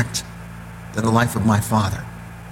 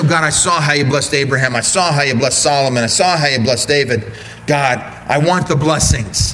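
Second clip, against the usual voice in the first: cat's demanding prayer. Acted. Cat Christian demanding blessings from God, mock whine. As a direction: plead like a spoiled child. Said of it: "A cat prays about it and says".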